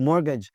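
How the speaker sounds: "मॉर्गेज" as mor-gage, no t; silent t. Shown as a demonstration. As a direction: leave the t out of "मॉर्गेज". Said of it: "टी की आवाज़ नहीं आती जी".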